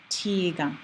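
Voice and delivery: "tiga" with a crisp T, never a TH; hard T. Shown as a demonstration. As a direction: start "tiga" on a hard T sound. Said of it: "a hard T sound".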